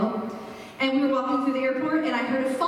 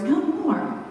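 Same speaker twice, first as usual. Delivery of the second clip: "No more" lifted higher, with a drawn-out fall; emphatic tone; 4 semitones higher than usual. Retold or imitated. Quoting words heard as a parent, emphatic "No more". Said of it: "the same emphatic tone".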